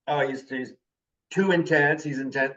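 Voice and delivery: imitating a critic, lightly disapproving; mild mock insult. People describing him as too intense, lightly insulting. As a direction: put a touch of criticism on "intense". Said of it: "mean it as an insult".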